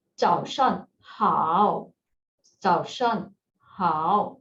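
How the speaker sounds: 早上好 said slowly, with 好 stretched down and up; model greeting. Shown as a demonstration. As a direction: teach 早上好 carefully, stretching the 好. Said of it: "You will say".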